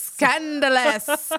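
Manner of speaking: high, slow, drawn-out scandalized echo; shocked prim gasp. Retold or imitated. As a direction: stretch it out, mock-scandalized. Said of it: "I'm like".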